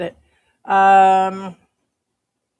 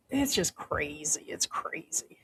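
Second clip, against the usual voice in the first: whispering; 3 semitones lower, 11 dB quieter than usual. Real, not acted. Muttering aside.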